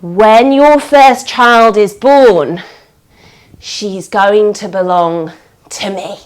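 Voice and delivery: slow, low, sinister witch; ominous witch. Acted. Witch claiming the firstborn, slow and low. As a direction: lay down the bargain menacingly.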